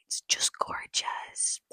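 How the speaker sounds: slow, whispered rapture; swooning. Real, not acted. Vlogger swooning over favourite pasta place, in a whisper. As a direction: sink into a slow, adoring whisper.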